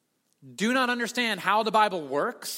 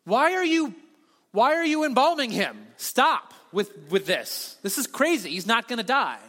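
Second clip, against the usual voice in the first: indignant protest; 3 semitones higher, 3 dB louder than usual. Retold or imitated. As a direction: protest in exasperation. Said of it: "They were really mad".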